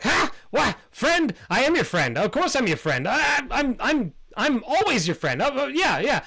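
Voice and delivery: high, eager squeaky bat insisting on friendship; squeaky fawning bat. Acted. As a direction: pitch way up and gush loyalty. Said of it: "And Squeakers is like".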